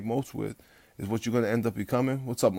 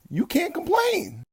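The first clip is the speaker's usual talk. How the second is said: much higher, drawn-out shout; real shout; slower than usual. Real, not acted. Venting at complainers on his vlog, a slow real shout. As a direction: bellow it out slow, fed up.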